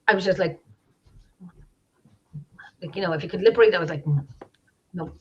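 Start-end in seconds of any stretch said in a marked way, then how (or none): 4.0-5.1 nearly mouthed, hushed retelling; not out loud. Retold or imitated. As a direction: mouth it with barely any sound. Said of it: "I didn't say anything loud".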